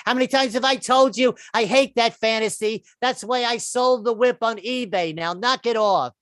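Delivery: put-on New York Jewish accent, a wife nagging her husband. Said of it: "she's like".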